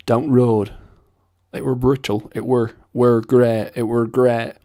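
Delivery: broad Bolton, Mancunian with a West Country lilt; Bolton accent. Shown as a demonstration. Accent guide quoting Bolton locals, broad lilting Bolton accent. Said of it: "bit of a West Country lilt".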